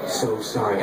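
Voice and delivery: acted-out meek apology, losing steam; sheepish apology. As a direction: apologise over and over, trailing off small. Sheepish apology fading out, retold.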